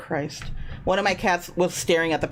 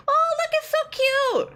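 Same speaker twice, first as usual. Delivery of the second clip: excited; 3 dB louder than usual. Real, not acted. Delight at drawing.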